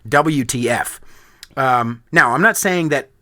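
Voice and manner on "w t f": a touch louder, reading the post like shouting; mock all-caps reading. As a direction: mimic an all-caps rant, half-laughing. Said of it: "all in caps".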